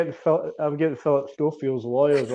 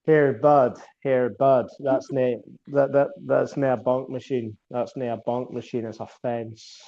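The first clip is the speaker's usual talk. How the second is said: lightly done Northern Scots, "nae a bunk machine"; a hint of a Northern Scots bloke; Northern Scottish accent; slower than usual. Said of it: "most horrendous accent ... Northern Scottish accent".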